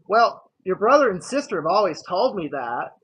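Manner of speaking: a touch of a mom retorting; lightly voiced mom. Acts mom's reply to confession.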